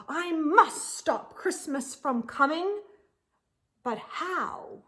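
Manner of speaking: determined Grinch. Acted. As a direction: grumble out the plan, fed up. Grinch's angry resolve.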